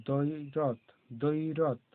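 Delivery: দৈরথ with a firm দ and no ব sound; stressed দ, silent ব. Shown as a demonstration. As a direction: lean on the দ in দৈরথ. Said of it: "দটা জোর দিয়ে বলা হচ্ছে".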